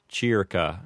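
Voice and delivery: "circa" as "cheer-ka"; church Latin. Shown as a demonstration. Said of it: "With an ecclesiastical pronunciation".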